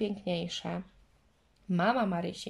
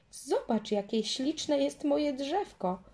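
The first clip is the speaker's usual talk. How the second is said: higher, slow proud showing off; proud little girl, higher and slow; 6 semitones higher, slower than usual. A narrator's reading. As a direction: boast about her little tree. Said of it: "z dumą w głosie".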